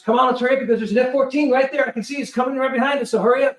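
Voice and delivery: acted crewman chivvying passengers; urgent crewman. Crewman hurrying passengers off deck.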